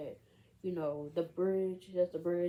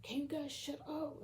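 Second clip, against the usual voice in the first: mock exasperation; 9 semitones higher, 4 dB quieter than usual. Rob to friends while checking his message, mock exasperation. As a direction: act out telling off nagging friends without shouting. Retold snap at nagging friends.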